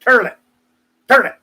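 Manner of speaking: "Turlet", punched hard on TUR; turlet for toilet. Shown as a demonstration. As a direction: relish "Turlet" as a toilet mispronunciation. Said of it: "'cause I like saying it".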